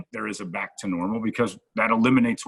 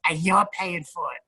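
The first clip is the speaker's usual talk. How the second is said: high smug put-on voice; imitating Ralphie; 7 semitones higher than usual. Ralphie sticking the host with the bill, high smug voice. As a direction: pitch up and spring the bill on him.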